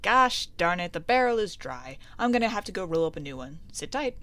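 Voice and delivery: lightly voiced barman grumbling; a touch of folksy annoyance; put-out barkeeper.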